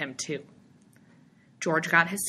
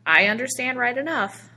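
deliberate, raised-voice reply; said slowly; 7 semitones higher, 6 dB louder than usual. A narrator's reading. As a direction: answer deliberately, louder and higher. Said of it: "the stranger said slowly".

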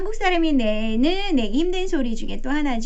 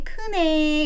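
teacher voice; 5 semitones higher, much slower than usual. Shown as a demonstration. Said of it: "이렇게 얘기해 주고요".

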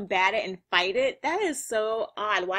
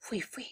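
soft imitated panting; 9 dB quieter than usual. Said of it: "Look at Gazelle Man out of breath".

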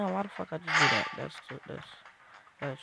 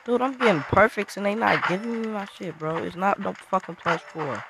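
louder, higher protest, last words slowed; indignant complaint; 5 semitones higher, 5 dB louder than usual. Real, not acted. Gamer ranting to chat about bad grades, indignant. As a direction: rant at the game for cheating you.

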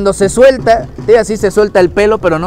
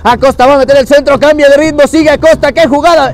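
excited play-by-play; 5 semitones higher, faster than usual. Real, not acted. Play-by-play building on attack.

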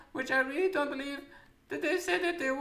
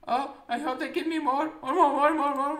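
greedy craving; 4 dB louder than usual. Acted. Craving more.

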